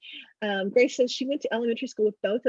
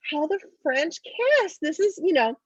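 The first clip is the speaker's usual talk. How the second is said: put-on higher, slow patient little girl; matter-of-fact kid; 7 semitones higher, slower than usual. Amber patiently explaining French kissing, matter-of-fact. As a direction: spell it out for them. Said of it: "And she says".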